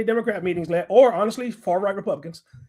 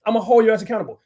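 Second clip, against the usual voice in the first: louder repeat; 3 semitones higher, 4 dB louder, faster than usual. Real, not acted. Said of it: "repeated louder".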